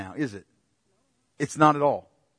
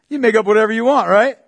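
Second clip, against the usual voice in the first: excited; 8 semitones higher, 11 dB louder than usual. Real, not acted. Mocking art interpretation.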